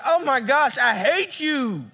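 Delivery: put-on a sulky teenager storming off; huffy teen outburst. Teen snapping at a parent over a rule, in a huffy outburst. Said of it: "huffing and puffing".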